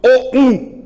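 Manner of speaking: O U with both vowels at full, equal force, loud; wrong equal-stress demo. Shown as a demonstration. Teacher showing the wrong way, O U each given full loud force. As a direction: say O and U separately, both strong. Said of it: "seria uma coisa assim".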